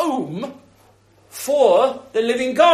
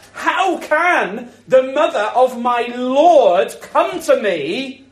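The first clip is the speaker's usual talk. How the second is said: slow cry out; slower than usual. Retold or imitated. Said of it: "Elizabeth cries out".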